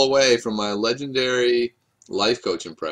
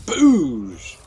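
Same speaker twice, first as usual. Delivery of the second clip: excited shout; 3 semitones higher, 5 dB louder, much slower than usual. Real, not acted. Triumphant card play.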